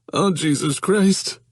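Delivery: high, slow, desperate oath; panicked wail. Acted. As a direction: stretch it out in real panic. Johnny dreads the confrontation.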